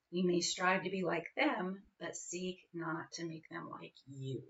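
measured, deliberate recitation with pauses; poem reading. Acted. Parent reading Gibran to other parents, measured recital.

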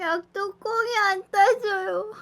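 high, whiny strained near-cry; straining, half laughing half whimpering; opening a stuck jar. Real, not acted. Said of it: "사운드 안 낸다면서 바로 사운드를".

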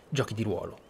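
ordinary talk, nothing marked

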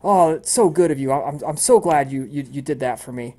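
high, gushing welcome that dips mid-way; chipper cheerful woman. Acted. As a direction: lay on the sweetness for the guest. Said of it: "she says".

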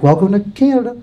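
imitated gentle Canadian greeting; lightly mocked tender welcome; sweet, soft welcome. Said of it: "that's how they say it too".

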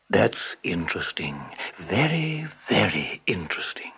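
low, sly murmur; scheming tiger. A narrator's reading. Tiger plotting quietly, low and sly.

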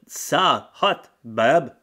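mock the couple's baby talk; hammed-up ditzy coo.

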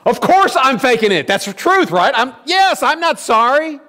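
put-on high, exasperated child's protest; defiant kid voice. Boy admitting to his mother he is not sorry, high and exasperated. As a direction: blurt it out like a caught-out kid.

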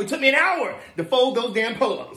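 high-pitched, exasperated complaint; high, fed-up clerk; strained politeness. Acted. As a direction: complain in a high, put-upon voice. Clerk complains about customer's kids.

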